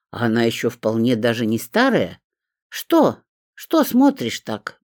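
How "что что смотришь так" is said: grumbling. A narrator's reading. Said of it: "брюзгливо проворчала".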